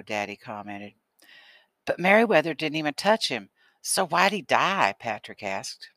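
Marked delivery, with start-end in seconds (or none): 1.8-4.9 bewildered. Acted. Boy baffled by sudden death.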